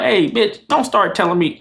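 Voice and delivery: mildly heated retold rebuke; retold anger. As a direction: cut them off, acting out annoyance. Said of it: "I think I got mad".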